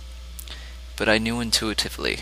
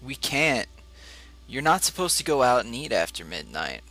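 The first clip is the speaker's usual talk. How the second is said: higher, louder wife's objection; firm refusal; 6 semitones higher, 5 dB louder than usual. A narrator's reading. Wife rejects husband's all-night restaurant suggestion, firm refusal. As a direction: voice the wife firmly ruling it out, pitched up.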